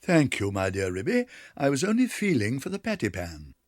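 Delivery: a hint of a stammering, blushing guest; embarrassed Duchess. A narrator's reading. Duchess covering her blunder to Ribby, flustered. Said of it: "said Duchess, blushing".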